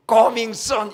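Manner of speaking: loud promotional announcement. Acted. Preacher quotes hopeful encouragement.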